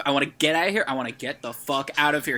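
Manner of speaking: mild mock yell, rising urgency; retold yelling. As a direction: urgently imitate someone demanding to leave. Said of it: "kind of yelling".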